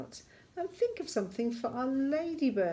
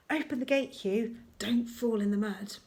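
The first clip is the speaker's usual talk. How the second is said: louder, lifted call to a friend; character calling out; 3 semitones higher, 5 dB louder than usual. Acted. Lanky Len to Hugh as they arrive, calling out.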